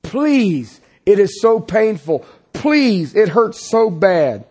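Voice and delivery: a hint of Paul begging, pitch rising on the second please; lightly voiced plea, slowing on it hurts so bad; pleading Paul. Paul begging God three times to take the pain, mildly pleading. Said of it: "He's pleading".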